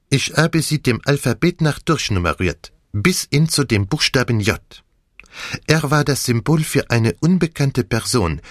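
put-on French-accented detective, measured revelation; Poirot. Detective explains his list of suspects, French accent. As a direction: unfold the case with dramatic emphasis.

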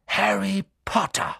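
sharp calling out; stern teacher. Acted. McGonagall calling Harry, stern. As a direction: call him out sternly.

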